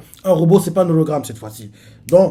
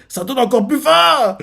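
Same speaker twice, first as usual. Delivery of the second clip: plainte aiguë et lente; gémir de faim en petit renne; affamé; 8 semitones higher than usual. Retold or imitated. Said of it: "Chopper fait". (Chopper, plainte aiguë et affamée)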